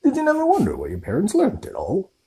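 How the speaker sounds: loud indignant rant; angry giant. Acted. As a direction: scold the Dursleys, building up. Hagrid rants at Dursleys.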